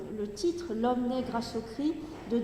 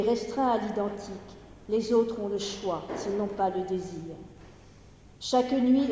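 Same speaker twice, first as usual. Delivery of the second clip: poetry reading. Acted. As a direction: read the verse steadily, running through the longer lines. Reads the poem aloud.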